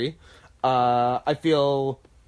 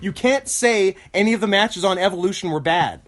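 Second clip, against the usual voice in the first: flustered, higher-pitched pleading; mock-outraged protest; 4 semitones higher, faster than usual. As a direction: protest in playful alarm, tripping over restarts. Mock outrage at co-host's opinion.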